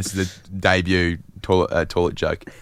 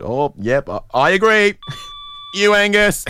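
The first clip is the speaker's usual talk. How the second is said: half-laughing echo of a fan's cry; mock agreeing shout; 12 semitones higher than usual. Joining the Serbian man's shout.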